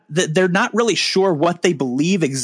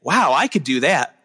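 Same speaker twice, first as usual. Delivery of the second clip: excited listener; 7 semitones higher than usual. Pretend. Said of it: "I want you to listen to my podcast and say".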